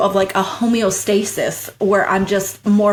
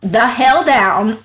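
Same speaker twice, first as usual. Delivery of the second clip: reassuring self-talk; 3 semitones higher than usual. Retold or imitated. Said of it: "I literally had to tell myself".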